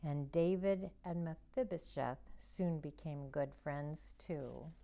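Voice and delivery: put-on gentle storybook narration for kids; reading to children. A narrator's reading. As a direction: read it like a children's Bible story. Reads Bible story to children.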